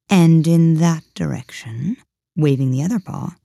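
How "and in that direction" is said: slow, louder cat pointing the way; lightly voiced cat. The Cheshire Cat pointing Alice one way, slow and louder. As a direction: draw it out like a lazy cat.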